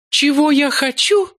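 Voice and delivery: high, icy, poisonous question; cold venomous hiss. A narrator's reading. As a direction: hiss it back coldly. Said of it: "прошипел ... холодно и ядовито". (холодно и ядовито)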